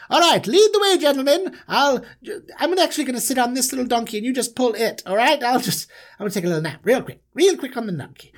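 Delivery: put-on high, lordly older brother ordering people about; pompous brother. Joseph bosses his brothers around, lordly and high. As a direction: play the spoiled favourite, grand and lazy.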